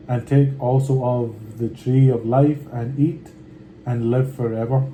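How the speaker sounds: measured, unhurried Bible reading; scripture reading. Acted. Reading Genesis aloud to his viewers, steady scripture reading. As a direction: read the old words steadily and with care.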